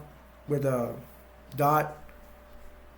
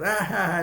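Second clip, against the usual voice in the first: higher mock "ah-ha-ha"; imitated cry; 4 semitones higher than usual. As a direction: act out a cartoonish outcry. Acts out the character's cry.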